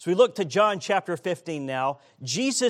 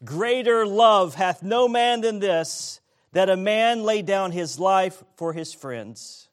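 congregation reading together, louder; many voices in unison; 4 semitones higher, 6 dB louder than usual. Real, not acted. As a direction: read the verse aloud in unison. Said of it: "Let's read verse thirteen".

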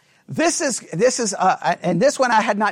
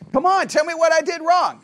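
higher-pitched mock dare; rhetorical challenge; 5 semitones higher, 3 dB louder than usual. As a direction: ask it as a challenge needing no answer. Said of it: "I'm gonna ask it in a rhetorical way".

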